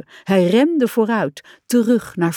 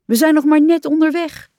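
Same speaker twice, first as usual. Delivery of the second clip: raised, louder surprised objection; astonished, pushed a little louder; 9 semitones higher, 5 dB louder than usual. A narrator's reading. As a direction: protest in surprise, pitch up. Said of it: "zei Rad verbaasd".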